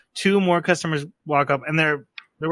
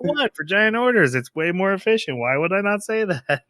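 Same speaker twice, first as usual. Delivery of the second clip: mock indignant defense; 6 semitones higher than usual. Fox Mask defends herself.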